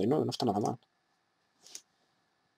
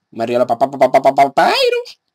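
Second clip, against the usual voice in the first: a mock skeleton laugh spiralling up; Papyrus laugh.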